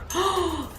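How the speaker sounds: high, soft gasp; quick, high intake of breath; craving gasp. Real, not acted. Recalling intense Coke craving.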